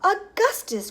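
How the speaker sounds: high, loud motherly call; crying out. A narrator's reading. Mother calling her son from the river, crying out. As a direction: call his name in alarm. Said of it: "cried Missus Gloop".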